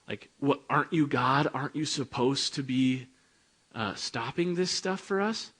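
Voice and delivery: demanding answers of God, rising toward a near-squeal; crying out to God. Retold or imitated. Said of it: "like, crying out to God".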